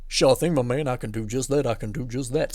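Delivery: playful character voice, agreeing readily; put-on obliging voice. Host answering a submitter's request, playfully obliging. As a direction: take the request on in a silly voice.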